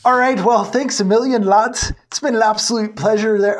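hammed-up Irish accent that drifts Scottish; clumsy put-on Irish accent; bad Irish accent. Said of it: "Ah, it's still Scottish".

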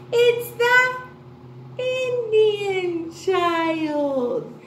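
rhythmic, sing-song classroom verse; children's poem recital. Shown as a demonstration. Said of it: "let's do our Indian child poem".

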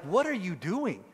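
mock incredulous questioning, rising in pitch; incredulous challenge. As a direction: question it like a baffled relative. Disapproving friends' questioning, acted.

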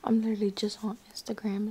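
hushed whisper. Real, not acted. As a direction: whisper so nobody wakes. Late-night whisper.

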